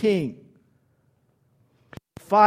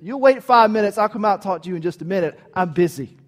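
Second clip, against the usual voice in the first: hurried brush-off; faster than usual. Retold or imitated. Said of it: "That would have been my response".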